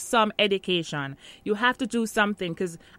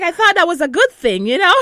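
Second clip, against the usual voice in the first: loud, high, through laughter; laughing protest; 9 semitones higher, 11 dB louder than usual. Real, not acted. Telling interviewer about the accent complaint, laughing protest. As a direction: protest merrily while cracking up.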